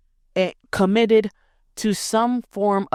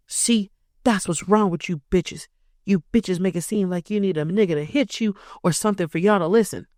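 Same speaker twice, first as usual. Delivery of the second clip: man voice. Retold or imitated. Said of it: "like, the man voice".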